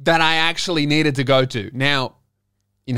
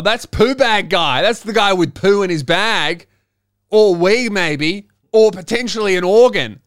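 mocking onlookers; 5 semitones higher, 5 dB louder than usual. Waiting room crowd judging poo bag guy, hammed-up gossip. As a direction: drag out the whispered-aloud judgement. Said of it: "have a bunch of people go".

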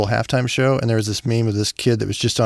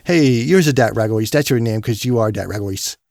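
lightly voiced baby talk to a dog. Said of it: "I'll talk like that".

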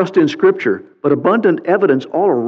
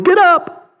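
high, bright command to the morning; a lightly voiced God giving orders. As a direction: order the dawn to rise.

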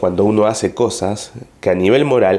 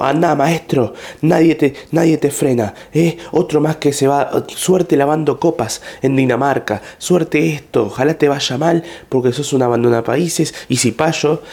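higher, sneering imitation of an angry leftist; mock-scornful commenter, pitched up; 5 semitones higher than usual. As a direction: jeer at the traitor leaving the country. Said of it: "que está tipo".

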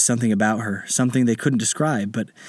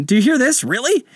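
high, louder outraged captain; indignant pirate captain; 14 semitones higher, 4 dB louder than usual. Acted. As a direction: scoff like an offended pirate boss.

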